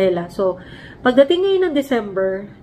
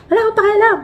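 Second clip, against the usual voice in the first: high, loud dismissive snap from the father; father refusing his daughter, angry; angry retort; 11 semitones higher, 5 dB louder, faster than usual. Retold or imitated. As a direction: fling it down before hanging up. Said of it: "Nagalit siya".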